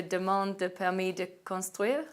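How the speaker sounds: demande de permis de construire said with French sounds; French pronunciation. Shown as a demonstration. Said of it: "I hope I'll do my French accent correctly here".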